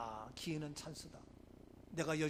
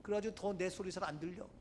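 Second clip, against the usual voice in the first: ordinary talk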